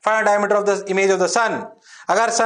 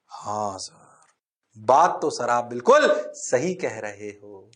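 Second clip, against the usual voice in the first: lower, soft student voice; mock student reply; 10 semitones lower, 4 dB quieter, slower than usual. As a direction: answer like a dutiful pupil. (छात्र की आवाज़ में नकल)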